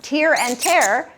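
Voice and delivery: slow contrast, first tear rhymes with ear, second tear with air; two pronunciations. Shown as a demonstration. Teacher shows students heteronyms, two pronunciations of tear. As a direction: TEAR as teer, then TEAR as tair, slowly. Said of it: "pronounced two different ways".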